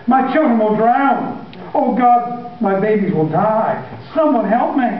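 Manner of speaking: high, frantic pleading; father begging for help to save his children; panicked cry. Acted. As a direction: panic at the rising tide.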